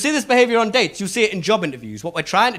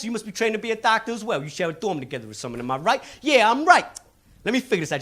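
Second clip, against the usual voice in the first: street mind-reader. Retold or imitated. Comedian playing the salesman sizing up the Missouri student. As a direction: sum him up with swagger. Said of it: "he goes".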